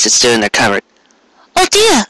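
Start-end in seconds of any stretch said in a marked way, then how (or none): 1.6-2.0 very high, drawn-out teasing lament; high hammed-up oh dear; mock sigh of dismay. A narrator's reading. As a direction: play at being let down, pitched way up. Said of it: "she intoned".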